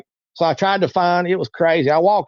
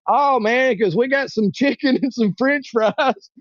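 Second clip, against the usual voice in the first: higher-pitched imitation of an eager helper; eager offer; 6 semitones higher, slower than usual. Homeless man offering food to a fainting stranger, eager. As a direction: draw it out high, laughter creeping in.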